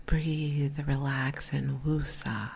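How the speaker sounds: soft, hushed invitation to unwind; soothing. Pretend. Host offers busy women a mental vacation, soothing. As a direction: let each word settle gently.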